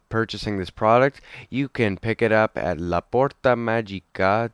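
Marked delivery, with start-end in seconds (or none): 2.8-4.5 bad Italian accent on the name. Shown as a demonstration. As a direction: say it like an Italian, badly. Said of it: "my Italian accent is so bad".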